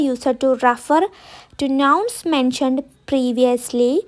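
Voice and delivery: each word spaced for writing; slow dictation. Shown as a demonstration. Teacher dictating a sentence to students, very slow. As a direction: dictate slowly so students can copy. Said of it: "dictating the definition".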